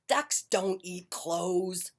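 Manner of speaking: slow grumpy retort. Acted. Duck grumbling at Goat, slow and cross. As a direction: drag it out crossly. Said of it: "grumped Duck".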